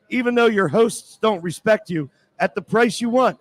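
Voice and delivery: sponsor read with jabs at the hosts; sarcastic radio ad read; mocking ad read. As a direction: read the ad straight, slip in the insults. Host reads the sponsor ad.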